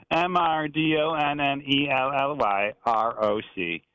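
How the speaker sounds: slow, deliberate spelling; drawn-out spelling. Real, not acted. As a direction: spell it out slowly, letter by letter. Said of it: "I made that too long".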